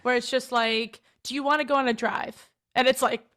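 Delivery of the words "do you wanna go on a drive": definitive, statement-like ending on drive; question as statement. Shown as a demonstration. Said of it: "almost like a definitive statement when it's a question".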